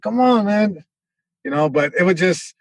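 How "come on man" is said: higher, lightly voiced challenging dad; mock confrontational dad; dad impression. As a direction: imitate dad's habitual challenge. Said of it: "It was always like".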